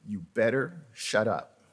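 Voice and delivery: a no-nonsense inner voice telling him to hush; stern warning. Retold or imitated. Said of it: "he said it just like that".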